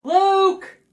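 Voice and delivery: high call across the room. Acted. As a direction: call his name to summon him. Calling out.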